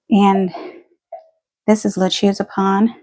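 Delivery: breathless after running stairs; talking while catching breath. Real, not acted. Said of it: "Sorry, I'm out of breath".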